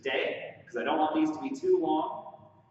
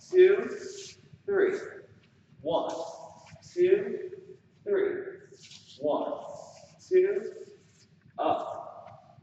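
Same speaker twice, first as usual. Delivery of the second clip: dance count call; much slower than usual. Shown as a demonstration. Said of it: "Let's do it again".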